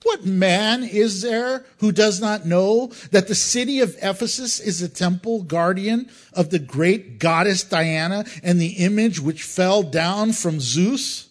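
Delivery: a touch of a loud public orator; orator's address. Retold or imitated. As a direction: call the crowd to order with authority. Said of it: "He said".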